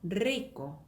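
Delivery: "rico" with a trilled initial r; Spanish trill opening "rico"; rolled r. Shown as a demonstration. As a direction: roll the r at the start of "rico". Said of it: "굴리는 발음인데".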